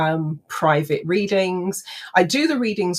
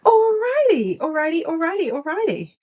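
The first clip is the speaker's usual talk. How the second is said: high sing-song; high playful sing-song; 11 semitones higher than usual. Real, not acted. Playful sign-off on live stream.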